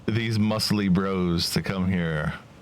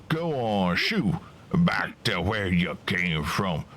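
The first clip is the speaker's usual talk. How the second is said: mild brush-off of a stranger; lightly voiced wary local; slower than usual. Local turning away a builder, lightly put-on wary voice. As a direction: send the builder packing, lightly in character.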